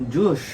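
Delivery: "Juice" ending in a sh sound, like "joosh"; "Juice" with a hushed sh for the final s; Bangladeshi English mispronunciation. Shown as a demonstration. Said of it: "a Bangladeshi English speaker says".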